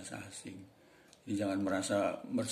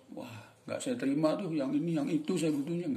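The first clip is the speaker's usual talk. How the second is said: mock boss; 6 semitones higher than usual. Imagined boss rejecting.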